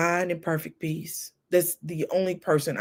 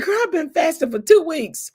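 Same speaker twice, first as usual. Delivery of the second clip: imitating mom; 11 semitones higher, 4 dB louder than usual. Mom explaining fast.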